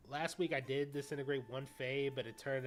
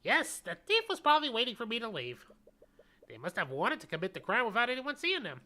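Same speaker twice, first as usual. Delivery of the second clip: put-on creepy old man voice; 8 semitones higher, 6 dB louder than usual. Witness answers in character.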